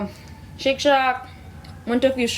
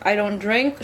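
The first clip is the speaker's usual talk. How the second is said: mouth full. Real, not acted. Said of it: "Sorry I'm chewing and talking".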